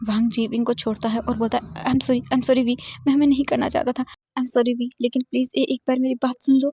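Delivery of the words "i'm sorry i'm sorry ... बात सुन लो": tearful apology. Acted. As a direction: beg forgiveness with a catch in the voice. Wang Ji apologizes, pleading. (ऊँची आवाज़ में रोती हुई माफ़ी)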